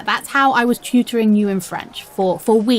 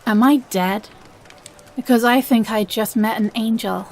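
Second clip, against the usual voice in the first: cheesy pickup line; 2 semitones higher than usual. Acted. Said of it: "wait, I have more".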